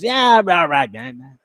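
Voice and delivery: lazy impression of a singer. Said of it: "as you always say in the Elvis voice".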